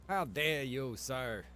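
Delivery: normal talking voice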